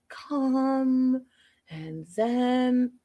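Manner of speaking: mock-zen drawn-out words; lightly imitated zen calm. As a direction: stretch it out very slowly, imitating serenity. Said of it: "Jesse and his zen".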